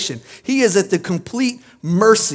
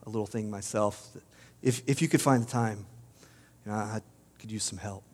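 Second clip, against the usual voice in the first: small, meek, fading mock plea, much softer and lower; timid whimper; 6 semitones lower, 8 dB quieter, faster than usual. Preacher mocking a timid Jonah, whimpering softly. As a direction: mumble a sheepish request to God, trailing away. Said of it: "He didn't just whisper to God".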